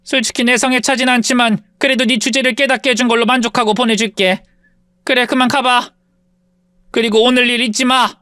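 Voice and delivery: lightly voiced sneering rich woman; haughty rich woman. Rich woman taunts her former maid, mildly sneering. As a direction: look down on her with a lazy sneer. Mean former mistress gloating.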